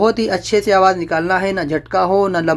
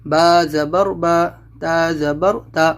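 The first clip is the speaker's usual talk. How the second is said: slow spelling drill; slower than usual. Shown as a demonstration. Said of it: "زبر کی آواز اوپر کو اٹھتی ہے".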